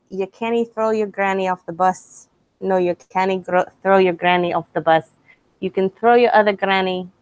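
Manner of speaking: halting, lightly done Scottish accent; attempted Scottish accent. Shown as a demonstration. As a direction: recite song words in an amateur Scottish accent. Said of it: "I still can't do the Scottish one".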